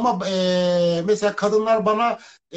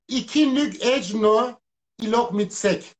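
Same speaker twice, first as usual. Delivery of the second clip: backwards speech; 2 semitones higher, slower than usual. Shown as a demonstration.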